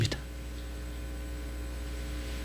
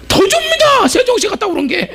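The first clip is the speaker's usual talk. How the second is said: laughing. Real, not acted. Laughing punchline.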